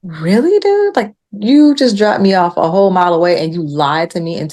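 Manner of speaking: mock confrontation, mildly outraged; indignant. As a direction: confront them in disbelief. Retold indignation at the driver.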